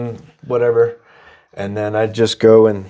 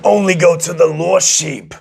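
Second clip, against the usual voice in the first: Jesus voice; 2 semitones higher than usual. Pretend. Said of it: "your Jesus voice?".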